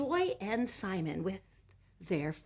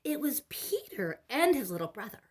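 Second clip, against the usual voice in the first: hushed suspense; 6 semitones higher, 7 dB louder than usual. A narrator's reading. Another doorbell reveal.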